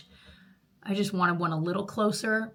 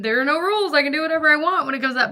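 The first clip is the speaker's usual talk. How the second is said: excited; 7 semitones higher, 7 dB louder, faster than usual. Real, not acted. Excited burst about nail freedom.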